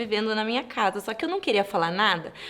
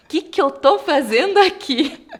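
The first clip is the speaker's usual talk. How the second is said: laughing; 5 semitones higher, 6 dB louder than usual. Retold or imitated. Retold thought, laughing at herself.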